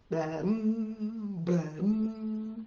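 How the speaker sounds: a lightly voiced frog's bum bum; a hint of a frog voice for the kids; froggy bum. Shown as a demonstration. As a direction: say it like a frog with a long tongue. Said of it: "he goes like this".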